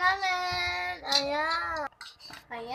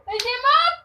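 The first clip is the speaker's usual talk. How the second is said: surprised exclaim; 8 semitones higher, 7 dB louder than usual. Real, not acted. Surprised at empty plate.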